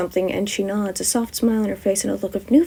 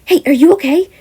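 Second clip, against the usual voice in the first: concerned; 8 semitones higher, 6 dB louder than usual. Acted.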